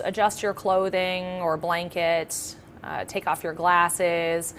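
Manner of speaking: calm, measured meditation guidance; guided meditation. Acted. Yoga nidra teacher settling listeners into practice, calm guided meditation. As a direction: talk them gently into relaxation, leaving long pauses.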